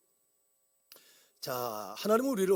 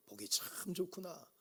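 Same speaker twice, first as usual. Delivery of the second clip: tender approval; 13 dB quieter, slower than usual. Retold or imitated. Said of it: "라고 하셨어요".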